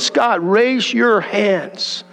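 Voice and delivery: God asks again, patient and unhurried; slow gentle command. Retold or imitated. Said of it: "He said".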